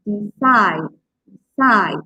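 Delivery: de-CIDE, with CIDE strong and falling; decide with the weight on its last syllable; stress on last syllable. Shown as a demonstration. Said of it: "you can stress the last part".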